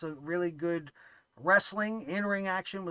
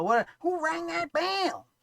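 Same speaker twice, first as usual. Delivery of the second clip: very high, squeaky little voice; 10 semitones higher, 4 dB louder than usual. Playing the Wizard of Oz doorkeeper at the green door: Munchkin from The Wizard of Oz voice. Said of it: "like the Munchkin from The Wizard of Oz in the Green Door".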